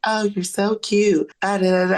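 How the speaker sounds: put-on squeaky baby talk like an anime girl; overacted anime dub. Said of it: "she spoke like a Japanese anime character".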